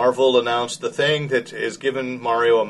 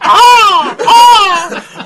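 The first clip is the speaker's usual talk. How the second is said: loud high burst of laughter; laughing; 15 dB louder than usual. Real, not acted. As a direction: cackle out in delight. Host laughs at Mario's reversal.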